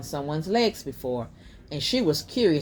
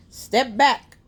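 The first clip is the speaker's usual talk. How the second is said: firm command; 8 semitones higher, 5 dB louder than usual. A narrator's reading. Jasmine waves mom away.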